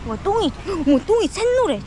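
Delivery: loud, high astonishment; amazed exclaim. Real, not acted. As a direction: pitch jumps up in surprise. Amazed at dog's yellow poop.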